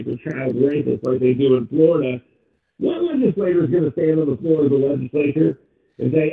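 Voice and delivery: muffled, like inside a tin can. Real, not acted. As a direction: voice muffled through a hood. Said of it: "you're talking inside of a tin can right now".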